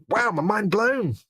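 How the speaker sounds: high, drawn-out mock wonder; retold amazement. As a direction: act out being amazed, slowly and high. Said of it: "So I was amazed to find".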